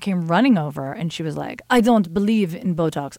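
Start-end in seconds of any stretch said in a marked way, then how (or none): 1.7-3.2 badly faked Russian accent; clumsy mock-Russian accent; horrible Russian accent. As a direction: attempt a hammy Russian accent at your usual pitch. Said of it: "that's a horrible Russian accent".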